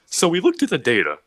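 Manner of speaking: high, loud, on the edge of laughter; imitated laughing delivery. Imitating Sam Hyde on stage, mock laughing. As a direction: push it out as if fighting giggles. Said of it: "laughing, he goes".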